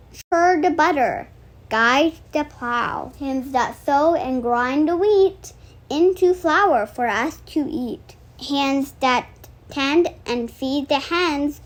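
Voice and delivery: steady, sing-song read-aloud of a rhyming book; reading a picture book aloud. Acted. Reading the cookie book to her viewers, storytime read-aloud.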